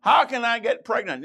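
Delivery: a hint of a startled young Mary; Mary asking the angel in mild disbelief; lightly voiced incredulous Mary. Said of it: "the Jemot's version".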